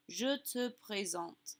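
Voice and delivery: slow, careful French model phrase; French pronunciation demo. Shown as a demonstration. Teacher modelling the informal French introduction, slow and careful. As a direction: say it evenly for learners to copy. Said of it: "you could say".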